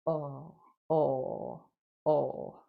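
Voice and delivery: soft, limp uh sound; weak schwa. Shown as a demonstration. Teacher demonstrating a weak schwa to students. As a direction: let the uh fall out with no force. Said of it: "어, 사운드가 아니라".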